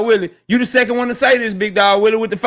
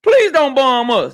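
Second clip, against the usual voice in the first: mock pleading; 3 semitones higher, slower than usual. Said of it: "he waving them flares like".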